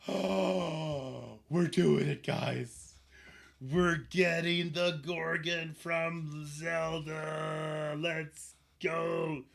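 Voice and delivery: gasping hype, drawn out; excited gasp. Real, not acted. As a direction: celebrate the win with chat. Gasp, getting a reward.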